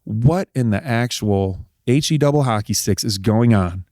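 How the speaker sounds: slow, spaced-out disbelief; stunned disbelief. Retold or imitated. Husband voicing his stunned wife, slow disbelief. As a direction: spell out the disbelief word by word. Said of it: "she's just like".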